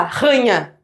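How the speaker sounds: RANHA with a and i squashed into one syllable; wrong diphthong. Shown as a demonstration. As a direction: say RANHA in two syllables, no separate i. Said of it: "um ditongo, eu teria que falar".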